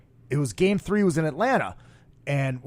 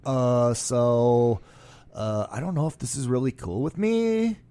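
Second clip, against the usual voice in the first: millennial mock; 5 semitones lower, 4 dB quieter, slower than usual. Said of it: "stereotypical millennial talk".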